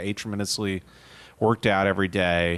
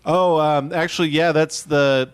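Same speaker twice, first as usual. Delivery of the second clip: flustered God voice; 5 semitones higher, 4 dB louder than usual. Acted. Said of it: "It's like".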